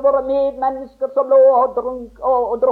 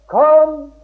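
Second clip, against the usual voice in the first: preaching call. Acted. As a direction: summon the listener forcefully. Preacher calls sinner to come.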